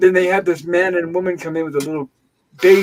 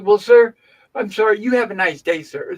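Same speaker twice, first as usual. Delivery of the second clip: condescending nurse; 3 semitones higher, 4 dB louder than usual. Retold or imitated. Nurse ending the argument with a patient, mock condescending. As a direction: imitate a patronizing nurse's brush-off. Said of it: "all condescending".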